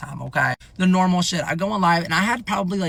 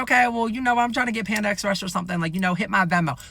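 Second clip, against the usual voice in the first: higher-pitched playful request; joking around; 5 semitones higher than usual. Retold or imitated. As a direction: toss it out as a joke, pitch up. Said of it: "Joking around".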